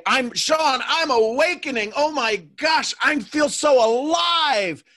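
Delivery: high, loud, mock-ecstatic; imitated gushing awakening. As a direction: gush like an over-thrilled student, stretching the end. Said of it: "Remember when some of you say".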